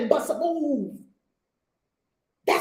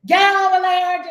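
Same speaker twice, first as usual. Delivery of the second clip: barked order, louder; mock TSA bark; 7 semitones higher, 9 dB louder than usual. TSA agent yelling at a passenger, loud mock bark. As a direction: snap it out like a guard. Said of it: "Let's hear you bark at people".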